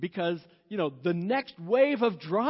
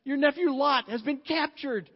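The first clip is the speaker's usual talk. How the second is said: urgent messengers; 5 semitones higher than usual. Retold or imitated. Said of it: "men come running up to Abraham and says".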